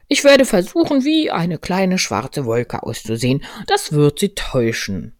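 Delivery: lightly voiced storybook bear, pleased with a plan; Winnie der Pooh. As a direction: open high and loud, then settle. (leicht gespielter Bär mit einem Plan)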